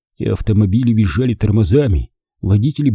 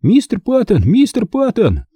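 high, urgent calling of a name; repeated high-pitched summons; shouting; 12 semitones higher, 3 dB louder than usual. A narrator's reading. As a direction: call upstairs in a boy's high voice. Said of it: "закричал Бенжи".

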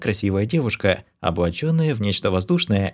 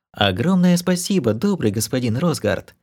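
purring; 4 semitones higher than usual. Acted. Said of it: "промурлыкала Гисильда".

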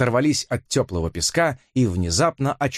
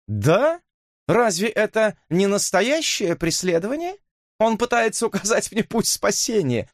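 much higher, mock-innocent; teasing Elisa; 12 semitones higher than usual. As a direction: play innocent. (притворно невинная дама)

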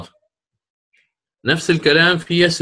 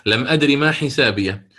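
recitation demo. Shown as a demonstration. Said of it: "نعم".

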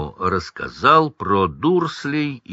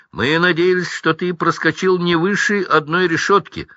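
high, raised character voice; calling out; 9 semitones higher than usual. A narrator's reading. Mr Weasley greets lost Harry, high calling voice. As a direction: keep it pitched well up, as if hailing. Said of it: "переведя дух ... крикнул мистер Уизли".

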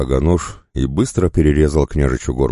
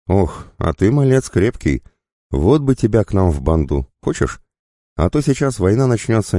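high, lively recruiting patter; coaxing bandit in a higher voice; wheedling bandit; 6 semitones higher than usual. Acted. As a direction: talk the boy into the gang, pitched up.

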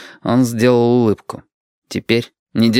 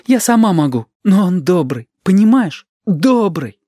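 higher, louder, insistent; Lidka pleading; 9 semitones higher, 3 dB louder than usual. Acted. Lidka defends Dima to Shut, pleading in a higher voice. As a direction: plead that he is kind.

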